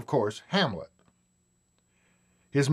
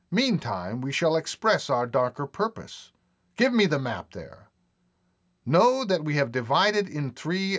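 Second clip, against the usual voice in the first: Lear recitation. Shown as a demonstration. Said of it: "Here are a few lines from Shakespeare's play, King Lear".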